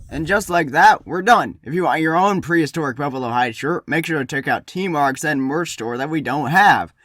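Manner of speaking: loud, punchy vlogger intro; hyped DIY YouTuber. Acted. A DIY YouTuber opening a craft video for his team, hyped. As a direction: pump up the viewers like a DIY host.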